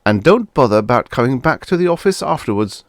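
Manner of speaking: firm, loud warning; admonishing. A narrator's reading. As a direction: admonish him sternly. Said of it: "I admonished".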